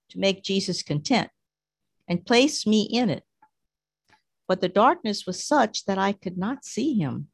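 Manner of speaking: measured, prayerful reading aloud; solemn passage reading; devotional reading. Acted. Reads mystic's text aloud.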